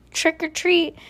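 high, cheery-call style shout; mild shout. A narrator's reading. Watsons at the Lincoln sisters' door, shouting mildly. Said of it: "shouted Mister Watson and Missus Watson".

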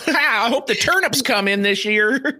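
high, jolly hobbit voice with a chuckle. Acted. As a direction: play a carefree little country hobbit. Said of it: "a lot like being a hobbit".

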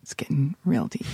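playful imitation of deep, throaty talk; mock guttural voice. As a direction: drop way down to tease his register. Mimics his deep guttural voice.

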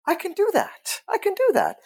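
high, thrilled repetition to himself; giddy as it sinks in; excited realization. Retold or imitated. Joyful realization retold.

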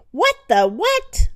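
high, loud startled cry; jolted awake in shock. Acted. Husband woken by the crash, startled cry.

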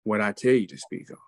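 a calm divine command; solemn. Retold or imitated. Voicing the Holy Spirit.

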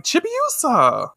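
high call of a name. Retold or imitated. Chibiusa spotting Usagi, high excited call. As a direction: shout her name across the crowd. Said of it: "And she's like".

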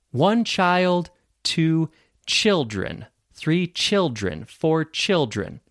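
slow counting drill, each phrase set apart; repeat-after-me drill. Shown as a demonstration. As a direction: count through the forms slowly for learners. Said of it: "repeat after me".

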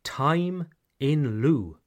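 Time in lieu said slowly and clearly; teacher repeating "Time in lieu" slowly; slow model phrase. Shown as a demonstration. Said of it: "something called time".

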